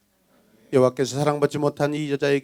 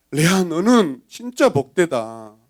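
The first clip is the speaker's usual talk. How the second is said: slow, drawn-out admiration; admiring village women; 3 semitones higher, 5 dB louder, slower than usual. Acted. Village women to Leah, lightly voiced admiration. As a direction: stretch it with a touch of awe. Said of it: "동네 여자들이 레아에게".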